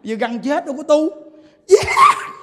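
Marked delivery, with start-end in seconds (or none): 1.7-2.3 sudden high squeal of Vàng; a hammed-up greedy shriek at the gold; greedy cry for gold. Greedy man grabs gold, laughing.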